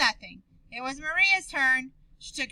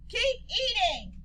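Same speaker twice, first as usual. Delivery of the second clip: mild scolding; 8 semitones higher, slower than usual. Acted. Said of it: "He's scolding them".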